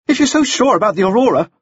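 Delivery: high-pitched heated challenge; urgent outburst. A narrator's reading. Frost argues over the other men, urgent outburst. All four men speak at once.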